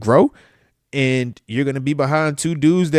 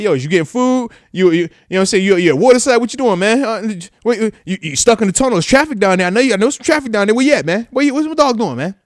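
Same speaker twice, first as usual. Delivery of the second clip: excited; 6 semitones higher, 5 dB louder than usual. Retold or imitated. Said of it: "I'd be like".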